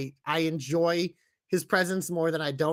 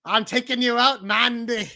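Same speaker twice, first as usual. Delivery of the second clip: put-on Alba's accented war cry, pitched up; mock accented challenge, raised pitch; imitating Alba's accent; 6 semitones higher, 5 dB louder, slower than usual. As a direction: call it out high in Alba's accent. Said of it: "'Cause, 'cause Alba always goes".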